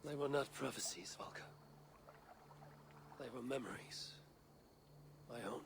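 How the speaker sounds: unvoiced whisper, stress on not; whispered confession. Eivor confides to Valka in a hushed whisper. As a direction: confide it in a hush.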